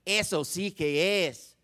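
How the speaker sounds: slow mock-Spanish spelling of S O C K S; Spanish inflection. Shown as a demonstration. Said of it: "say 'em with enough infle".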